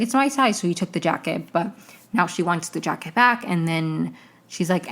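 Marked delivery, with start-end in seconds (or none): 0.0-0.6 pitched well up, bright and pleased; a thrilled high squeal of a line; mock excited quote. A friend voiced gleefully claiming the jacket fits. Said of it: "he was like".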